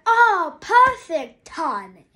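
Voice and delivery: put-on a rough go at Victor's accent; attempted Victor accent. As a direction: try Victor's accent, not very well. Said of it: "I'm not good at his accent".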